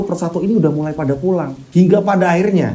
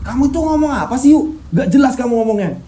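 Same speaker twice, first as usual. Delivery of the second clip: put-on higher, puzzled boy's voice; a higher voice, confused and worried; suara Anggit bingung; 7 semitones higher than usual. Anggit's voice in the story. (suara anak bingung dan cemas, lebih tinggi)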